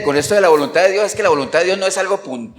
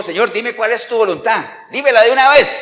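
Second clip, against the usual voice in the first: higher, building to a loud demand; insistent plea; 5 semitones higher, 5 dB louder than usual. Retold or imitated. Preacher voicing Saul begging the Lord, loud and insistent. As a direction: press for an answer, acting it out.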